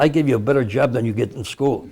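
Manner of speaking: mild imitation of a German accent; lightly put-on German accent. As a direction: give the quote a slight German accent. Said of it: "he spoke with a heavy German accent".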